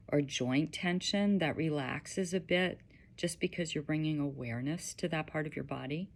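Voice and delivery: gentle guiding voice with long pauses; unhurried, slightly hushed meditation guide; guided meditation. Acted.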